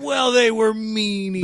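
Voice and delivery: drawn-out mock-childish complaint; mock pity. Co-host mocking excuses for a skipped dinner, mock pity.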